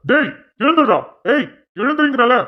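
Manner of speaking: shouting to wake someone. Acted. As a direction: yell him awake. Constable shouting prisoner awake.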